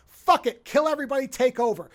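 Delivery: villain's order. Retold or imitated. Villain telling the pirates to seize the planet, loud reckless order. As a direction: bark the order like a pirate boss.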